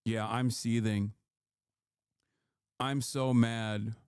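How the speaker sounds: flat mock fury, slowing down; dry sarcasm at the troll; sarcastic deadpan. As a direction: pretend to be furious without meaning it. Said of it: "guy is seething".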